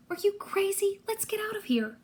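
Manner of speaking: high, whispery disbelief; alarmed protest. A narrator's reading. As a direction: hiss it urgently in a high whisper. Alarmed hero protests in hiding.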